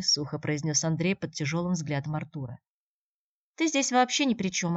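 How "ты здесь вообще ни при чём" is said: higher, cutting retort stressing ты; curt retort. A narrator's reading. The girl cuts Andrey off, curt. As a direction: cut him off sharply. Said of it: "отрезала девушка".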